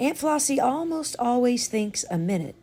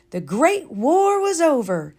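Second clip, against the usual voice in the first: higher, louder proclamation; lightly jubilant announcement; 7 semitones higher, 7 dB louder than usual. A narrator's reading. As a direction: announce the joyful news. Narrated announcement, repeated.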